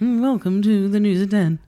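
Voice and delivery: lightly voiced news anchor; a hint of a broadcaster's welcome; Moira Stewart impression. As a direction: open the bulletin in a mock newsreader voice. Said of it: "That's her voice".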